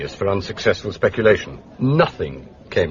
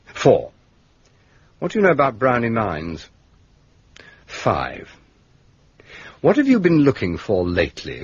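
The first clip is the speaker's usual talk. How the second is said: measured letter dictation with deliberate pauses; composing a letter aloud. Acted. Inspector drafting questions to Superintendent Yeo, measured dictation. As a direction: set out each numbered question separately, pausing between them.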